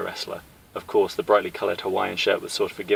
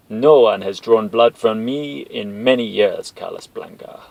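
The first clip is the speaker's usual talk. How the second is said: menacing villain; 6 dB louder, slower than usual. Acted. Villain Bison menacing captured soldier, slow cold threat. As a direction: savor the threat.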